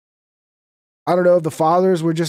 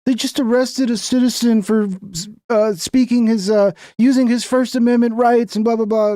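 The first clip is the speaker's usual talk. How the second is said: sneering parody of media spin; mock the news anchors; 5 semitones higher than usual. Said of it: "I'd be like".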